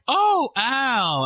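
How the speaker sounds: high breathy "Oh, Al"; mock moaning wife; Peg Bundy voice. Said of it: "where she's like".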